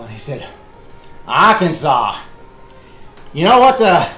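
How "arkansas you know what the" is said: put-on higher, louder Maine accent for the old Mainer; Maine impression. Wilbur sets up his joke to the Arkansas man, in a Maine accent. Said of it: "I'm doing my best Maine impersonation".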